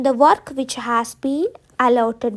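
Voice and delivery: each word spaced for writing; slow dictation. Shown as a demonstration. Teacher dictating a sentence to students, very slow. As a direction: dictate slowly so students can copy. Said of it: "പിന്നെ നമ്മൾ പറയും".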